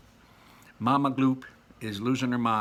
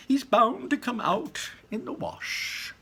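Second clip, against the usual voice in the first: airy, sing-song and carefree; high, slow breezy showman; 13 semitones higher, 5 dB louder, slower than usual. A narrator's reading. Wonka reassures the group, high and breezy. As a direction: brush off the worry, high and light. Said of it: "said Mister Wonka".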